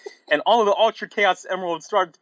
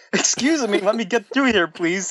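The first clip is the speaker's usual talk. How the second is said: higher-pitched, lightly voiced oaf; big oafish voice; 5 semitones higher than usual. A narrator's reading. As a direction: play a big dim-witted character lightly. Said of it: "said a big retarded voice".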